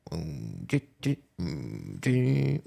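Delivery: low hummed beat, mm do do; imitating a drum machine. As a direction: hum a cheesy preset drum beat. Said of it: "it goes".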